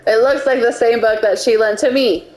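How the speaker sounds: measured read-aloud of game text; story narration. A narrator's reading. Player reading the scene to co-hosts, narrating. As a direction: narrate it evenly, like a visual novel.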